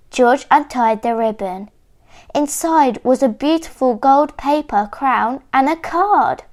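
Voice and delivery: clear, expressive picture-book reading; measured storybook telling with lifted key words; story narration for children. A narrator's reading. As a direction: read it like a story for small listeners.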